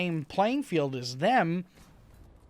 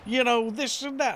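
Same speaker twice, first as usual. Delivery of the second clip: higher-pitched, badly faked British accent; half-hearted British chef accent, pitched up; Gordon Ramsay accent; 5 semitones higher than usual. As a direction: attempt a British chef's complaint, accent not quite landing. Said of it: "I can't do that accent".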